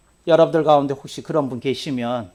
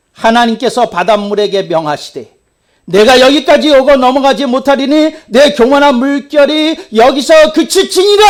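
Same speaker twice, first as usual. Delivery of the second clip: loud, high declaiming; preacher reciting Bible verse; scripture recitation; 9 semitones higher, 11 dB louder than usual. Acted. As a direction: proclaim the verse.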